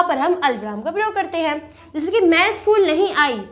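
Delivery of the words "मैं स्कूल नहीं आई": मैं स्कूल नहीं आई said slowly, then a stop; slow clause, halting briefly after आई; pause after आई. Shown as a demonstration. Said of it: "यहाँ पर हम रुके".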